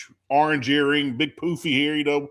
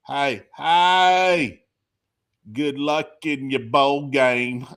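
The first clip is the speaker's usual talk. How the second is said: put-on country accent; much slower than usual. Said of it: "the worst country accent I've ever heard".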